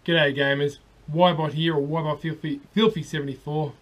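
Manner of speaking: hoarse from shouting; husky, worn-out voice. Real, not acted. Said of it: "Bit husky, been in the pub".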